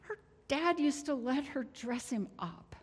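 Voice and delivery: high, anguished protest flung upward; pained cry of why me; railing at God. Retold or imitated. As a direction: shake your fist at heaven and demand why. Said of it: "as I shook my fist at God and said".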